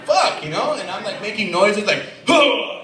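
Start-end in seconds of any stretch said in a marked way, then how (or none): 0.0-0.4 acted angry outburst, pitched way up; pissed off. Waiting boyfriend cursing the chatty attendant, pissed off. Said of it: "I'm pretty pissed off". 2.2-2.7 high, loud call across the fitting rooms; attention-getting shout. Acted. Boyfriend signalling his girlfriend from his room, attention-getting shout. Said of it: "making noises to get her attention".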